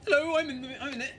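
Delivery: high, breezy mock cameo announcement; mock John Sim reveal. Fan imitating John Sim popping up, jaunty and high. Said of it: "for John Sim to be like".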